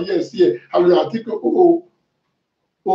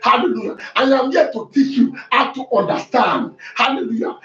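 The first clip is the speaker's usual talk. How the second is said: fiery preaching; 2 semitones higher than usual. Acted. Pastor preaching to his church, fiery and driving. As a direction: preach it hard to the congregation.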